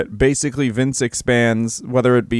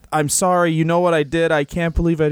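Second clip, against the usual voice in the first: imitating a tearful confession, raised pitch; mock tearful; 5 semitones higher than usual. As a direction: play at choking up while confessing. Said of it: "he starts, like, crying".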